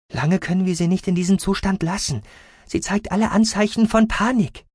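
high, urgent medic voice; worried medic. A narrator's reading. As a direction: warn them anxiously, pitched well up.

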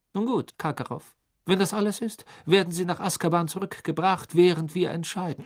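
high, loud and firm; stern official. A narrator's reading. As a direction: close the matter sternly. Crouch closes hearing.

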